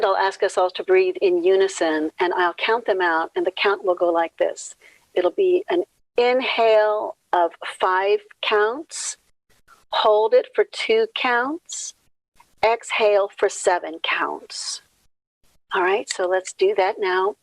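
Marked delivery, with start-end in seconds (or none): 5.1-14.8 slow, spaced-out instruction; guided breathing. Acted. Leader explains how the count will go, slow guidance. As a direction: lay out each step slowly, pausing between them.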